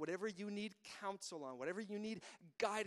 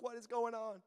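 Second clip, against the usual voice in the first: lightly acted alarm, a little louder; mock terrified shepherds; 3 semitones higher, 4 dB louder than usual. Shepherds react to the angel's glory, mildly mock-terrified. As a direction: imitate startled shepherds, half in fun. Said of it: "and they were terrified".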